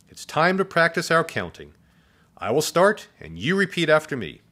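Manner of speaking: high, projected teacher voice; sweet teacher. A narrator's reading. Teacher starts counting practice, sweet and high. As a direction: instruct the class sweetly, voice well up. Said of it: "Her voice sounded like a warm slice of chocolate cake".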